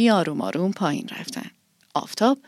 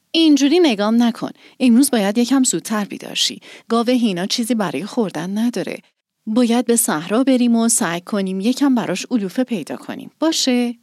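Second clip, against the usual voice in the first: pleading innocently; 2 semitones higher than usual. Acted. Girl coaxing her grumpy cat, innocent pleading. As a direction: plead gently like a wronged child. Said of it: "با مظلومیت گفت".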